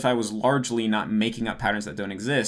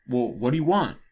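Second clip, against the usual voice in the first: "what do you want" climbing, then a steep fall at the end; same questioning intonation. Shown as a demonstration. Putting other words into the same intonation, questioning tune. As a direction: swoop up through "what do you want" and drop. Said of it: "You could take that same intonation".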